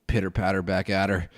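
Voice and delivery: ordinary talk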